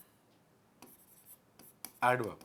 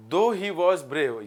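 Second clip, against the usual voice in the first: slow dictation; 3 semitones higher, 5 dB louder, much slower than usual. Shown as a demonstration. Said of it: "यद्यपि वो बहादुर था".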